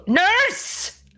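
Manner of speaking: high-pitched call for help. Acted. Patient calling for the nurse, high and urgent.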